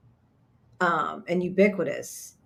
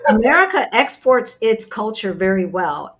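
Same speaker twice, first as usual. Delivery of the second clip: laughing; 3 semitones higher, 5 dB louder than usual. Real, not acted. Laughing agreement in banter.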